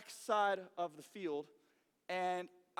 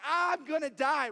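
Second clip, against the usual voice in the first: slow, loud, higher cry; drawn-out hammed-up doom; mock panic; 5 semitones higher, 7 dB louder, slower than usual. Player under the blows, loud slow mock panic.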